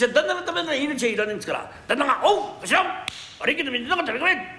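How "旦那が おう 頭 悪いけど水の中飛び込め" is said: commanding master. Pretend. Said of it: "もっと命令的に言ってもらいたい".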